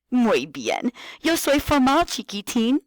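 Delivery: high, bright singsong teacher voice; kindergarten teacher voice. Shown as a demonstration. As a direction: talk like you're greeting small kids. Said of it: "talk to them like you're a kindergarten teacher".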